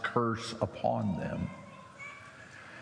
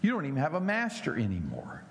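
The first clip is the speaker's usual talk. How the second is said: scornful jeer; 5 semitones higher, faster than usual. Retold or imitated. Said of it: "it may be they're saying".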